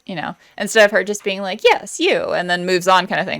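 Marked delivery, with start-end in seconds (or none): 1.6-2.3 high-pitched, eager pick; mock excitement. Retelling Bianca choosing her partner, excited. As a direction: lightly act out picking him with excitement. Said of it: "excited about it".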